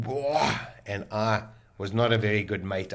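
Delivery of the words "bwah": mock retching noise. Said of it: "my stomach just went".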